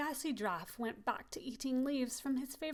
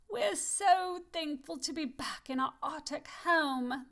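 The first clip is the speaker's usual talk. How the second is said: rejoicing; 4 semitones higher than usual. Acted.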